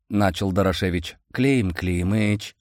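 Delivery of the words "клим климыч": put-on slow, drawn-out old servant's call; Koshchei exclaiming. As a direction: call out his master's name. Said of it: "воскликнул Кощей".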